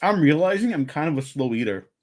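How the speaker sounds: talking through a mouthful of pizza; words round a bite of food; mouth full. Real, not acted. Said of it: "Sorry to speak with my mouth full".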